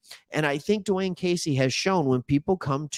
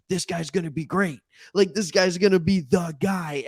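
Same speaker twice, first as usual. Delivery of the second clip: higher-pitched mimicry of excited fans; imitated crowd excitement, pitched up; mock hype; 5 semitones higher than usual. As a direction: overhype it like everyone crowning a new star. Voicing everybody's hype about Jackson.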